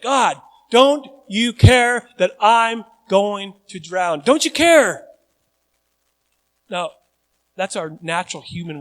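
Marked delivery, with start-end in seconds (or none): 0.0-5.1 loud, high, slow cry to God; anguished complaint. Retold or imitated. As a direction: cry out in frustration. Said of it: "You're like".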